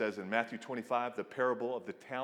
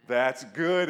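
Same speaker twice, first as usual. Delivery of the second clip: louder, thrilled; joyful exclamation; loud delighted; 7 dB louder than usual. Acted. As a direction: say it again with a burst of joy. God repeats it louder.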